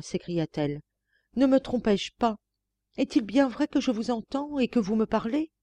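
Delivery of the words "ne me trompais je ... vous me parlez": higher, a touch of excitement; joyful disbelief. Acted. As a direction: ask it overjoyed and incredulous. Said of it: "grand cri pour marquer l'excès de sa joie". (joie incrédule, voix plus aiguë)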